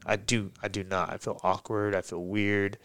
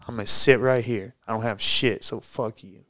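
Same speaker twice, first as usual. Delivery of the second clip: heated, louder retelling of telling off the cops; retold angry yelling; 3 semitones higher, 4 dB louder than usual. Telling off the cops who showed up, raised angry voice. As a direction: fire it back at them, voice raised and pitch up.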